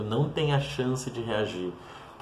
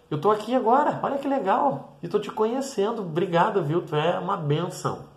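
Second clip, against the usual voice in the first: higher, lightly voiced humble thanks; grateful homeless man; 3 semitones higher than usual. A homeless man thanking the volunteer, lightly voiced and higher. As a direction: thank them simply, a little higher.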